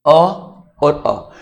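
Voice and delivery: अ drawn out very slowly from the throat; slow vowel demo. Shown as a demonstration. Teacher slowly sounding अ from the throat for class. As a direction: stretch each अ long and slow. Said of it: "उच्चारण स्थान है वो कंठ होगा".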